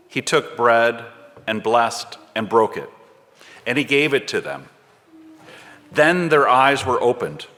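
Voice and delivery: measured, unhurried Bible reading voice; scripture reading. Acted. Reader reading Luke to the congregation, measured and unhurried.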